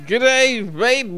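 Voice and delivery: high, loud hammed-up Australian accent as Bill Cosby; a big cheery Aussie greeting as Bill Cosby. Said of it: "Australian Bill Cosby".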